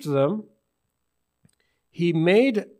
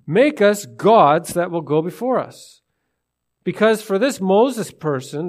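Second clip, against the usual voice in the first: demanding crowd. Retold or imitated. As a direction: push Aaron hard, impatient. People demand gods from Aaron.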